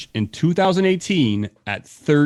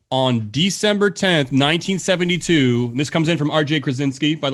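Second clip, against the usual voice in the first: quiz host read. Acted. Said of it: "quizmaster reads question slowly".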